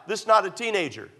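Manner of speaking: preacher's emphatic restatement, leaning on "not"; emphatic repetition. Real, not acted. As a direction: drive home the word "not". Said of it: "Let me just say it one more time".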